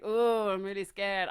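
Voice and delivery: hammed-up fake fear, drawn out; mock scared. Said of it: "be like".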